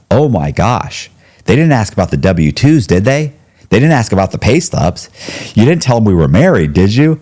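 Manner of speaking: rising panicked questions; nervous hurried pleading. Retold or imitated.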